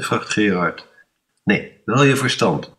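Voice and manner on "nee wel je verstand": bits. Acted. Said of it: "bijt André terug".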